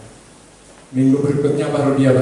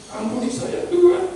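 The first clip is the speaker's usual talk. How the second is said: tearful prayer. Retold or imitated. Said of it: "saya nangis".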